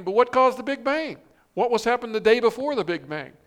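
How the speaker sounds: paraphrasing the scientist. Retold or imitated. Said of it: "he's saying".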